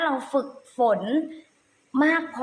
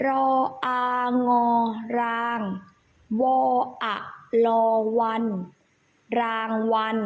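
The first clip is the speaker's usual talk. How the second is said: spelling drill. Shown as a demonstration. Teacher leads children through spelling a word, measured recitation. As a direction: separate syllables with pauses between.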